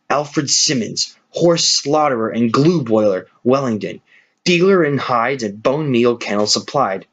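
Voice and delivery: slow, deliberate, each word weighed; slow grim reading. Acted. Benjamin reads the van's lettering to the hushed animals, slow and grim. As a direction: read the sign out like a death notice. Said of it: "in the midst of a deadly silence he read".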